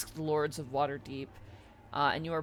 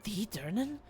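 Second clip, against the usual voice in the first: hushed. Acted. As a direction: murmur in disbelief. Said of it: "And they're like".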